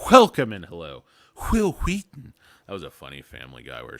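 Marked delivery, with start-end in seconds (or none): 1.5-2.3 Will Wheaton, with every W blown out, higher and louder; crisp pretentious Will Wheaton, each consonant hit; overenunciated name. Retold or imitated. Streamer mimics Stewie's Family Guy joke, overenunciating Will Wheaton. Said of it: "enunciating Will Wheaton too much".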